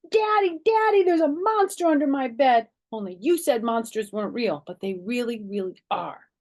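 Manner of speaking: high loud calling Daddy; excited calling out. Acted. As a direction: shout for Daddy the second he's home. Child calling to arriving father.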